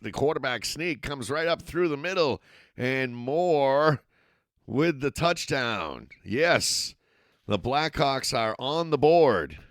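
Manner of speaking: announcer erupting as the Blackhawks score; excited touchdown call. Real, not acted. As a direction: let it burst out as he crosses.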